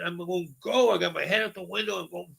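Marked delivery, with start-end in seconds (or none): 0.6-0.9 high-pitched urging without full volume; held-back mock holler, pitched high; urgent retold call. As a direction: re-enact waving a driver on. Waving driver on, retold.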